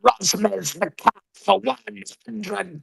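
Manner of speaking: slow possessed rasp; a slow demon voice trailing off; Exorcist demon voice. Acted. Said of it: "in the Ashton voice".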